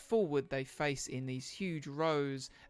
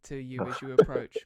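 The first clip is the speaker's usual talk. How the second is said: game master narration. Acted. Game master describes the scene.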